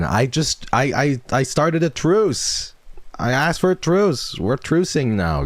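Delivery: high, insistent plea with stretched words; mock-indignant protest. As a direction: protest loudly in a high, pleading voice. Mock-indignant protest at chat over truce.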